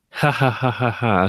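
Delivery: light amused chuckle; laughing. Real, not acted. Laughs at own unmuted audio.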